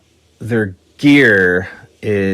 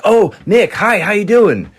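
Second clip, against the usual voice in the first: high, gushing fan greeting; fawning greeting; 10 semitones higher than usual. Retold or imitated. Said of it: "Bill Graham's like".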